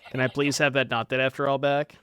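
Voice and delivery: polite, laughing please; asking nicely. Real, not acted. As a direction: sweeten it, ask nicely with a laugh. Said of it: "I'm asking nicely".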